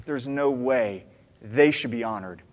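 muttering a bitter thought to himself; inner grumble. Retold or imitated. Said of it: "for people who I think".

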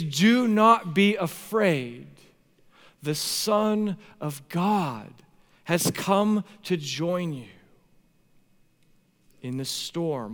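slow, weighty declaration; measured, emphatic paraphrase of Jesus; quoting Jesus. Retold or imitated. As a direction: spell out each phrase with solemn emphasis. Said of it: "when Jesus uses this phrase".

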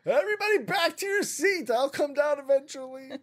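high-pitched, hammed-up stewardess call; flight attendant. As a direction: play a flight attendant calling out to the cabin. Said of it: "she's going".

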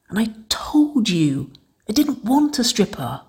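urgent whisper pushed as loud as possible. A narrator's reading. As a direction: whisper it hard and angry. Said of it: "raising her voice as much as she could in a whisper".

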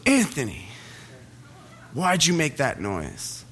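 lightly voiced stern teacher, drawn out; mock a teacher calling out a pupil, slowly; accusing teacher. Teacher blaming a student for the pig noise, mock accusing. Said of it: "Miss Pitts goes".

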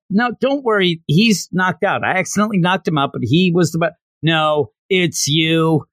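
a hint of a panicky teen boy; flustered boy. Kanata voiced, hurried explanation.

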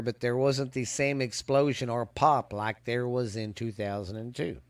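speaking through hiccups; words broken by hiccups. Real, not acted. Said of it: "I got the hiccups".

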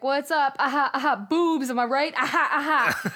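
hammed-up cool youth pastor laughing; upbeat youth pastor. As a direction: play the try-hard youth pastor. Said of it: "youth pastors have to be like".

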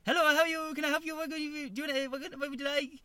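high, loud, badly faked Asian accent; mock Asian accent. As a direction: imitate a hairdresser's greeting in a rough Asian accent. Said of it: "do the Asian accent".

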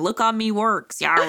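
pirate "me works" and "Yar". Shown as a demonstration. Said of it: "How is that any different?".

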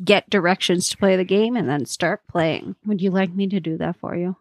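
talking through crunchy snack; words around a mouthful of crunching; crunching chips. Real, not acted. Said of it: "Don't mind my crunching".

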